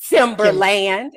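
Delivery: Timberland drawn out slowly with a full land ending; imitating the wrong name; how people mispronounce it. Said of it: "you know what people be saying".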